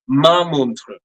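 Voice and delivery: "ma montre", with a clear open a and a French r. Shown as a demonstration. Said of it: "I will use the second word".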